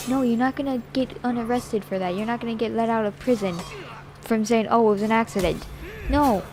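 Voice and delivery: loud lecturing. Retold or imitated. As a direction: lay down the law loudly. Lecturing the kid, raised voice.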